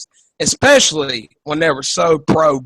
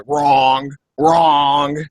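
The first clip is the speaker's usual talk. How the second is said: borrowed debate put-down, drawn out; lightly mimicked dismissive interjection; Donald Trump; 3 semitones lower than usual. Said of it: "I had to steal that".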